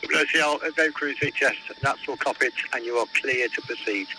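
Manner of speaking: marine radio. Real, not acted. VTS granting permission over radio.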